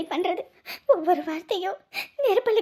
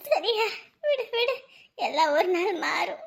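slow comfort; slower than usual. Acted. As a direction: reassure her slowly. Friend consoling again.

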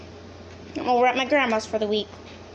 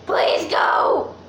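mock polite; 3 dB louder than usual. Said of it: "I'm being polite".

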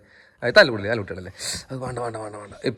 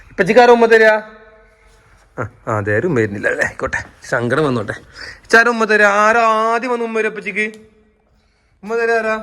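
coaxing; 4 semitones higher than usual. Real, not acted. Parent coaxing kids for kiss.

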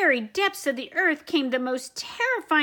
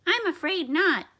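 lightly voiced professor; 6 semitones higher than usual. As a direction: explain like a calm scientist. Professor speaks.

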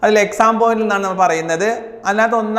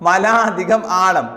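slow dictation; much slower than usual. Shown as a demonstration. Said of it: "plus means അധികം".

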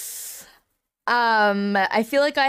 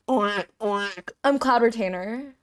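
slow, lowered dreamy crane voice; Cloud Retainer impression; much slower than usual. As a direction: drift it out slowly like a mystic. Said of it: "do you wanna hear my Cloud Retainer impression?".

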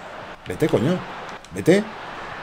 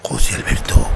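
whispering; 10 semitones lower than usual. Acted. Whispered name.

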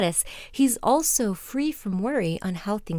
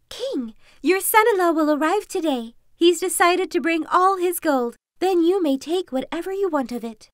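higher, sly fox voice; 7 semitones higher, 5 dB louder than usual. Acted. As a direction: play the clever fox. Fox tells king.

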